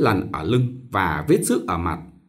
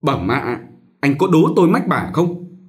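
speaking up loudly; 4 semitones higher, 3 dB louder than usual. Acted. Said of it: "nói to".

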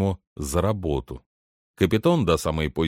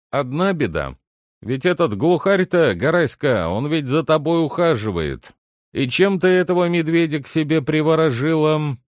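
lightly voiced butler, pitch raised; butler questioning a maid; 8 semitones higher, 4 dB louder than usual. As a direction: put it to her animatedly, a touch exasperated. Дворецкий расспрашивает Татьяну о Герасиме. (дворецкий, слегка досадуя, расспрашивает)

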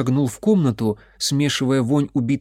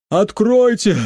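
put-on loud, high-pitched drunk peasant bawling through a door; a drunken villager yelling to be let in; hoarse drunk man; 9 semitones higher, 6 dB louder, slower than usual. A narrator's reading. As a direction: pound on the door and bawl it. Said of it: "сиплый мужской голос протянул".

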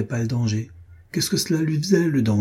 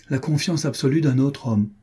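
brusque; 4 semitones higher than usual. Acted. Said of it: "répliqua-t-il brusquement".

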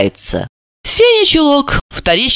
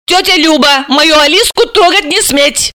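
furious outcry; 11 semitones higher than usual. Acted. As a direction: defend her child fiercely. Sima defending daughter.

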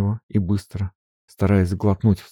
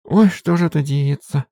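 higher, wailing lament; despairing maid; 9 semitones higher, 3 dB louder than usual. Acted. Maid Marfa lamenting as Sofya leaves. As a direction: moan it in despair.

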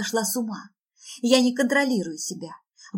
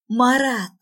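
high, loud desperate call; anguished full shout; yelling after him; 4 semitones higher, 8 dB louder than usual. Acted. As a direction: scream the name after someone leaving. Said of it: "ору ему вслед".

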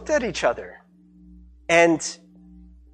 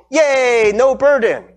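loud, raised mock celebration; mock cheering; 5 semitones higher, 6 dB louder, much slower than usual. Would-be fixer celebrating an easy fix, mock cheering. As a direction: cheer as if it were all solved.

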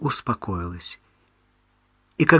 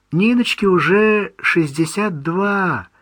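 sadly; 8 semitones higher, 4 dB louder, slower than usual. Acted. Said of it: "грустно сказала мать".

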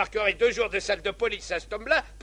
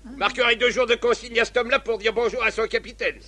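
drill sergeant; 2 semitones higher, 3 dB louder than usual. Acted. Captain handing out punishments.

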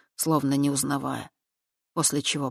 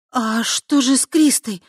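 startled perk-up; 8 semitones higher, 8 dB louder, slower than usual. Acted. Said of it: "встрепенулась она".

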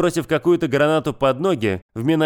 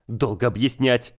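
slow, gloomy brush-off. Acted. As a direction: grimly refuse to explain, slowly. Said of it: "хмуро ответил мужчина". (хмуро, медленно)

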